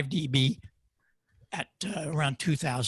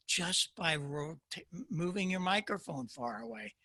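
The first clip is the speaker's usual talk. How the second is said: far off the microphone, softer; inside a barrel; 3 semitones higher, 4 dB quieter than usual. Shown as a demonstration. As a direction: talk from a distance, hollow. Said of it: "This is a great demonstration for you".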